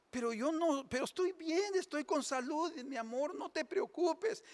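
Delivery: high, soothing mock wife; consoling wife. Wife comforts her weeping husband in the joke, high and soothing. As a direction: reassure the crying husband in a high voice. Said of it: "una mujer que está consolando".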